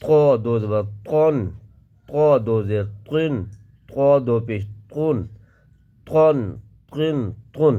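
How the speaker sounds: طا read full and heavy; teacher drills heavy طا. Shown as a demonstration. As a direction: give تن a thick, heavy sound. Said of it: "اس کو موٹی آواز کے ساتھ پڑھیں گے".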